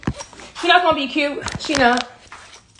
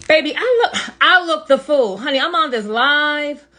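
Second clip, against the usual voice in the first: breathless and sweaty; out of breath; 3 semitones higher than usual. Real, not acted. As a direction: talk while catching breath. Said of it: "I'm out of breath".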